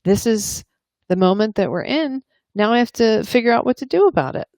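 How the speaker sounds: accepting. Acted. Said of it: "you accepted it".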